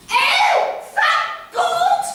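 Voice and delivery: high loud relieved cry; loud exclamation. Acted. Mummy exclaiming.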